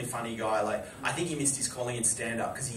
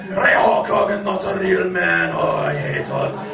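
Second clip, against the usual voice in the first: Sheik rant; 4 semitones higher, 8 dB louder, slower than usual. Retold or imitated. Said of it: "And he goes".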